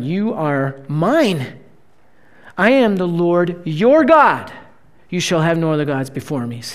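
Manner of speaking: the preacher voices God to the congregation, hushed. Acted. Preacher voicing God quietly.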